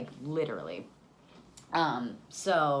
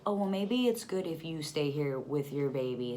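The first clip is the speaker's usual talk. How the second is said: mocking imitation of advice-giver. Voices limo guy's unwanted advice.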